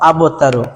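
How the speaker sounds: আবতারু with the ব released clearly; আবতারু, the ব given its single sound; tajweed demo. Shown as a demonstration. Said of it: "তাহলে বয়ের একক ব".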